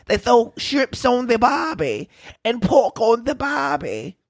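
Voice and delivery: badly faked Australian accent, drawn out slowly. Imagined Australian grumbling about the barbecue smell, bad Australian accent. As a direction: do a rough, halting Aussie accent. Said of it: "don't even know what the Australian accent sounds like".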